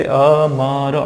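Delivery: "अ, म, र" in separate, drawn-out sounds; syllable by syllable. Shown as a demonstration. Teacher breaking अमर into its sounds, syllable by syllable. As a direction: sound out अ, म, र with a vowel on each. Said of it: "आप एकदम अम्र नहीं बोलते हो".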